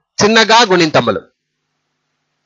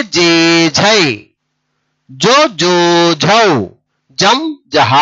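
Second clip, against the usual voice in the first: measured, spaced syllables, long vowels held level; short sound, then a drawn-out one; syllable drill recitation; much slower than usual. Shown as a demonstration. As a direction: recite each pair for learners to echo. Leads a repeat-after-me syllable drill.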